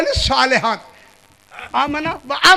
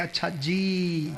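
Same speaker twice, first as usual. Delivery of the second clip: mock indifference; 5 semitones lower, 8 dB quieter, slower than usual. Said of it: "चालीस साल के अजाब के बाद भी कहते हैं".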